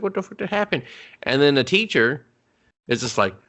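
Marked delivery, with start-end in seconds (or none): 0.0-0.8 dazed. Retold or imitated. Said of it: "he's just like".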